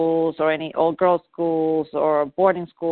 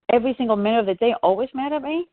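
mock-incredulous question, pitched higher; retold incredulity; 5 semitones higher than usual. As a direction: quote yourself querying it, quick, rising at the end. Retells questioning her always-angry daughter.

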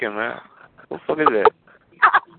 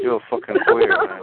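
high-pitched outraged yell. Real, not acted. Mock outrage at misheard word.

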